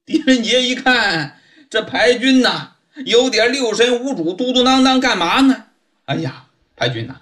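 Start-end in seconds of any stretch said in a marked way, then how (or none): 6.1-7.2 soft quick Di Renjie. Acted. Di Renjie calms the sergeant.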